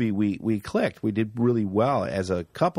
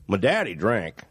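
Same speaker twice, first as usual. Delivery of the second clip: put-on backwoods Canadian accent; 2 semitones lower than usual. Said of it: "kind of doing his accent".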